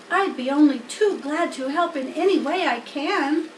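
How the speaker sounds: a worried piglet begging for hope; young pig Wilbur. Acted. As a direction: Wilbur asks the spider to save him. Wilbur voiced by reader.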